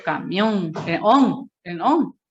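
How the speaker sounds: "Camión", then its stressed "on" singled out; stress on last syllable. Shown as a demonstration. Teacher showing the class the strong syllable, stress on "on". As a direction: punch "on" as the strong part of "Camión". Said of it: "la mayor fuerza de voz".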